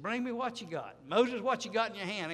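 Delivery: high, loud preacher's voice of God; voicing God. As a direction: call out commanding as the Lord. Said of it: "He said".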